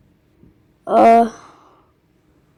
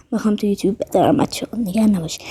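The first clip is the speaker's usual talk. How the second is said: whisper; 5 semitones lower, 9 dB quieter, much faster than usual. Real, not acted. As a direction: whisper it softly to the viewers. Reassuring viewers about YouTube upload. (نجوای آرام)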